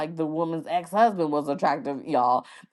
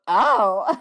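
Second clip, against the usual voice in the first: startled "oh" breaking into a high laugh; surprised oh into laugh; 13 semitones higher, 3 dB louder than usual. Retold or imitated. Registration lady caught out, surprised oh then laughing. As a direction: let the surprise spill into giggles. Reaction to he's married.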